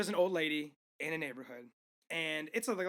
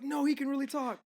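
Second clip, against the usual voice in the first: tag; 7 semitones higher than usual. Retold or imitated. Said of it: "then she's like".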